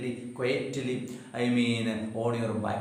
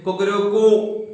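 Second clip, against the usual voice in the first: lightly imitated cockerel call, louder; rooster crow; 3 semitones higher, 5 dB louder than usual. Shown as a demonstration. Teacher showing how a cock cries, lightly imitated rooster. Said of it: "cock in the morning would say".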